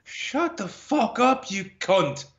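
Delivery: put-on high, drawn-out Irish-accented insult; hammed-up Irish telling-off, slow and high; Irish retort. Co-host capping the guest's Irish reply, mock Irish abuse. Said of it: "how would an Irish person respond to that".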